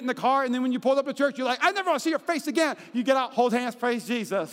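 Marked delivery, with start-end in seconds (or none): 1.6-2.8 high, rapid mock spat; mock argument. Spouse arguing in the car before church, mock angry. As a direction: fire it off fast, pitched up.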